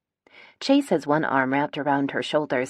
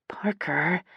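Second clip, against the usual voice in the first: voiceless whispered plea; pleading whisper; 4 dB quieter than usual. A narrator's reading. Gemma begs from behind sister, pleading whisper. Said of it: "Gemma whispers behind me, a plea".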